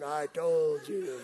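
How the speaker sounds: low, slow, drawn-out taunt; taunting salesman. Retold or imitated. Salesman imagined on the hood after near accident, slow taunting. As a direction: stretch it out as a haunting I-told-you-so.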